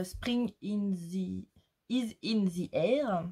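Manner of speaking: slow English phrase with a light French accent; self-mocking French accent in English. Real, not acted. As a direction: say the English words carefully with a mild French accent. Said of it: "Avec mon superbe accent".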